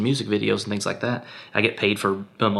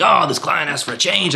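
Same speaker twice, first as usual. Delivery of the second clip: higher, whiny imitation of a bitter colleague; mock whiny complaint; 7 semitones higher than usual. Imitating bitter filmmakers griping about client changes, mock whine. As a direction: pout it out like a grumbling freelancer. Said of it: "complaining about everything".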